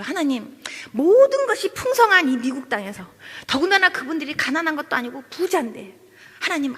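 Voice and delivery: retold earnest plea, pitch lifting; pleading prayer. Daughter-in-law praying to God for a sick woman, pleading. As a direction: plead with God on someone's behalf. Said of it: "하나님 앞에 제가 막 기도하면서".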